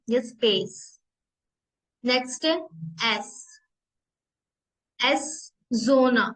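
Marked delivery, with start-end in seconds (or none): 5.0-6.3 zona begins with a soft Z sound, drawn out slowly; German soft S. Shown as a demonstration. Teacher shows how German S sounds: zona with a soft Z. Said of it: "ये soft as like English Z".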